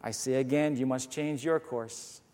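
calm, steady answer to an angry captain; calm repeat. Acted. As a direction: keep cool while the other side shouts. Canadian calmly repeats the order.

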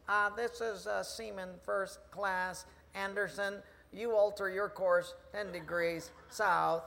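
unhurried, hesitant radio reply; a hint of an unruffled young sailor; lightly voiced seaman. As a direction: answer the admiral slowly, without shouting. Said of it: "he hears this voice".

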